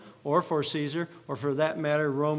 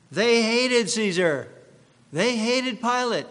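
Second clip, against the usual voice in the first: emphatic outburst; 6 semitones higher, 4 dB louder than usual. Real, not acted. Preacher telling the congregation how the priests hated Caesar, loud and emphatic. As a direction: drive home the hatred with force. Preacher stresses the crowd's hatred.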